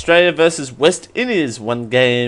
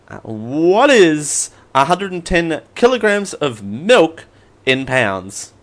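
asking voice assistant; 2 semitones higher, slower than usual. Acted. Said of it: "ask my trusty assistant".

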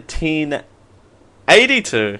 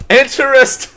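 high laughing exclaim; 11 semitones higher, 6 dB louder than usual. Pretend. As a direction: blurt it out through laughter. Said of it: "That sounds like a drug".

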